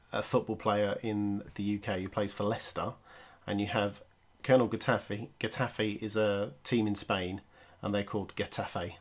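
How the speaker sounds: ordinary delivery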